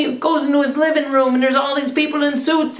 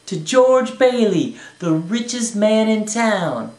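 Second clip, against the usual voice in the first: toast; slower than usual. Acted. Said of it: "gave him that toast".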